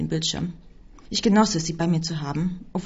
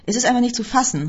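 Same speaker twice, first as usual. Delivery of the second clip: louder, higher exclamation of disbelief; raised-voice outburst; exclaiming; 5 semitones higher, 5 dB louder than usual. A narrator's reading. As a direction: cry out, indignant. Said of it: "rief ich".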